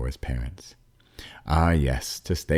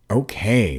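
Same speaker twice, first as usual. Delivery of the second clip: grudging okay; 7 semitones higher, 5 dB louder than usual. A narrator's reading. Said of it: "as if it were a big inconvenience".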